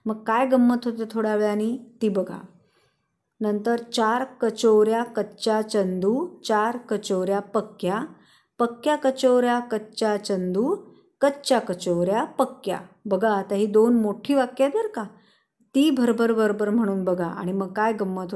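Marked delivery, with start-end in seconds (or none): 3.8-12.8 measured, phrase-by-phrase twister reading; unhurried demonstration of a tongue twister; slow tongue-twister demo. Shown as a demonstration. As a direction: say the twister carefully for learners. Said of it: "आधी सावकाश म्हणून बघायची आहे".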